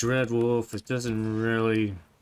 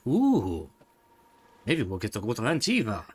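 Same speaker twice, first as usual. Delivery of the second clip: spooky trailer voice. Retold or imitated. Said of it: "We have some spooky monologue voice".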